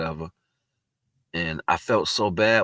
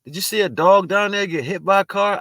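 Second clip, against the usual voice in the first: higher, lightly voiced young woman; young woman calling out about a hurt dog, higher; imitating a girl; 12 semitones higher, 5 dB louder than usual. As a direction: mimic a worried passerby asking. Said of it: "And the girl said".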